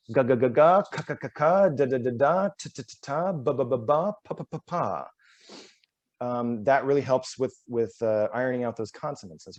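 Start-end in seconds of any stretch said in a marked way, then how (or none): 0.1-5.1 rapid drill from "ga" back to "pa"; reverse consonant run. Shown as a demonstration. Coach running the consonant ladder backwards, crisp. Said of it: "And then you go back".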